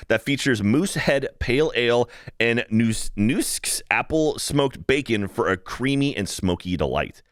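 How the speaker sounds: read-out promotional food description; reading aloud. Acted. Host reading the cheese soup write-up to cohost, reading-aloud voice. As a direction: read it smoothly off the page.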